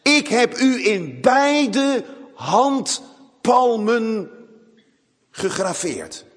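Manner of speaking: God showing his engraved palms, slow and solemn. Acted. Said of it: "alsof God zijn beide handen laat zien".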